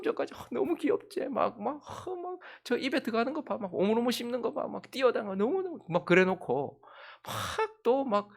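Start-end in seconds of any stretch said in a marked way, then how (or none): 0.3-5.8 put-on much higher, cooing mom over her baby; cooing mother. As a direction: gush like a smitten mother. Quoting the mother cooing earlier. (엄마가 아기를 보며 훨씬 높은 목소리로 감탄하듯)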